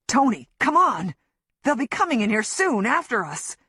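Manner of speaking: desperate urging; urgent plea. Acted. Griff urging her to flee.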